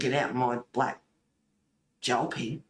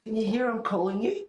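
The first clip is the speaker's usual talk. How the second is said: spooky teasing; 8 semitones higher, 3 dB louder, faster than usual. Pretend.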